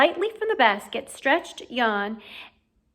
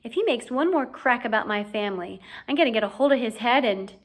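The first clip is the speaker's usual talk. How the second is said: angry; 4 dB louder than usual. Acted. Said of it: "he said angrily".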